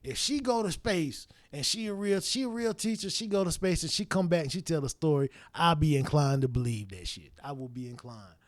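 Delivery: quiet reasoning. Retold or imitated. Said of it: "I was like".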